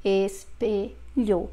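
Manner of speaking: "Espelho" split slowly, closed e's. Shown as a demonstration. Teacher demonstrating both closed letters, "Espelho" slow and syllabified. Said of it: "E is going to be closed".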